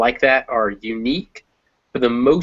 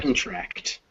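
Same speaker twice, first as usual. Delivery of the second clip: "contract" softly, reduced con and stressed TRACT; soft correction, weight on the end of "contract"; 10 dB quieter than usual. Shown as a demonstration. Teacher models the verb for student, soft end-stressed "contract".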